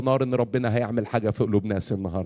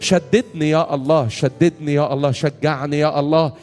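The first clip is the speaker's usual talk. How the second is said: raised, insistent preaching prayer; fervent prayer leading; 4 semitones higher, 4 dB louder than usual. Real, not acted. Preacher praying for the weary in the hall, fervent prayer. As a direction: plead for the congregation with rising urgency.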